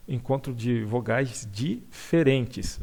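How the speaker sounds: slow, deliberate recap; slow repetition. Shown as a demonstration. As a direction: spell out the definition slowly. (repetindo devagar)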